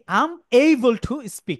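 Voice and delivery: slow, deliberate drill pace. Shown as a demonstration. Teacher drilling students on able to, slowly. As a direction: spell it out slowly for the class. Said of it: "teacher drilling example sentence".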